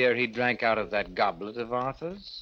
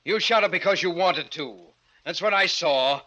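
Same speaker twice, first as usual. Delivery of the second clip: firm accusation; 4 semitones higher than usual. Acted. Friend accuses him of murder.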